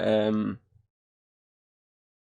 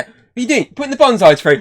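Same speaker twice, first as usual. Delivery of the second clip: high mock character voice; 12 semitones higher, 10 dB louder than usual. Acted quote from the episode.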